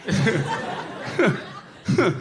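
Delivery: exasperated high yell; drawn-out shout of giving in; high, stretched shout. Retold or imitated. Comic yelling back at grandpa, exasperated high drawn-out shout. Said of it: "And I was like".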